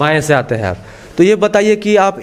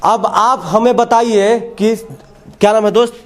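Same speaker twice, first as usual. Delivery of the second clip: raised pitch, slow emphatic delivery; TV reporter's address; 4 semitones higher, slower than usual. Real, not acted. Reporter presents a pupil to viewers, in emphatic report style.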